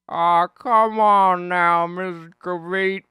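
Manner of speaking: loud, high, slow pleading call; starting to break. Retold or imitated. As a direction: act out cracking as you call after her. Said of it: "this is where he starts to break".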